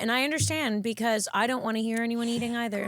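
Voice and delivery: talking while chewing food; chewing noisily. Real, not acted. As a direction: speak through a mouthful. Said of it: "I'm sorry I'm eating in the microphone".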